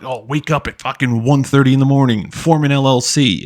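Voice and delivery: mock hustle advice.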